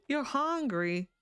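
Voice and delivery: high, drawn-out mock whine. Player teasing a hungry game character, mock whine. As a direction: stretch it out high, playfully whiny.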